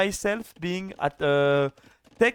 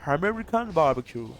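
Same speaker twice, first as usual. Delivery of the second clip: American accent warm-up. Shown as a demonstration. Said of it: "I need to say".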